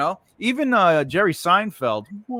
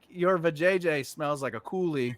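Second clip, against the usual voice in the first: laughing blurt; 7 dB quieter than usual. Retold or imitated.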